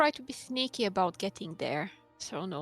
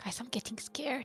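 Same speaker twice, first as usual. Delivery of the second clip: hushed whisper, quieter and higher; 3 semitones higher, 6 dB quieter than usual. Speaking to the group of guys, whispering. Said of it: "Why we're whispering?".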